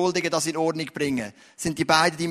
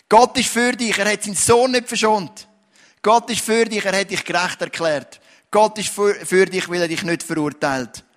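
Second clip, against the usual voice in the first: preaching refrain; 4 dB louder than usual. Acted. The preacher assures the congregation, preaching at rising force. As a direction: proclaim it to the congregation, building force.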